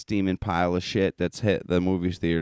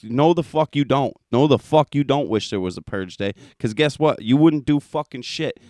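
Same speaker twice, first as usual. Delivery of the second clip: rising, much higher and louder tirade; heated rant; 8 semitones higher, 4 dB louder than usual. Real, not acted. Ranting at viewers who wish for a Purge day, heated and loud. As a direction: tear into them, building up steam.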